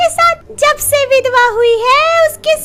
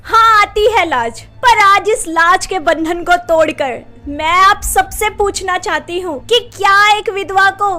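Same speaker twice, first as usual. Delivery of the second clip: pained questioning; 8 semitones higher, 6 dB louder than usual. Acted. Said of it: "सारा दर्द अपने सवालों से".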